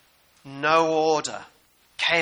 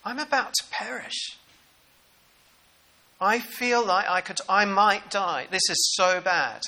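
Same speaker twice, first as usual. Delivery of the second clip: higher, louder frantic plea; mock panic; 4 semitones higher, 4 dB louder than usual. Disciples in the sinking boat panic at Jesus, higher and louder. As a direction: sound like you might drown.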